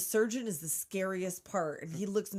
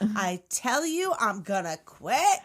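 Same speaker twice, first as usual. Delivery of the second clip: bratty threat; 4 dB louder than usual. Acted. Acting child star threatening to quit.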